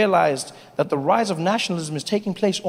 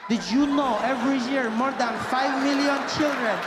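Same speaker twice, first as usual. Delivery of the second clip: charity ad voice; 2 semitones higher, 4 dB quieter than usual. Retold or imitated.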